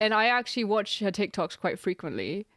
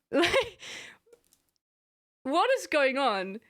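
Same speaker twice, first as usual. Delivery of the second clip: laughing disbelief; 5 semitones higher, slower than usual. Real, not acted. Laughing bewilderment.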